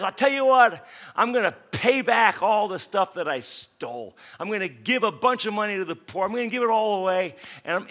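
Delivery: loud, eager declaration; fast, loud promise to pay it all back; excited vow. Retold or imitated. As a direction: proclaim it like a changed man bursting to give. Zacchaeus declares repentance.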